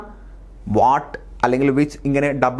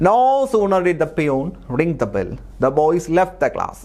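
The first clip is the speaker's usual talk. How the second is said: slow dictation read; 3 semitones higher, much slower than usual. Shown as a demonstration. Reading out exam sentence.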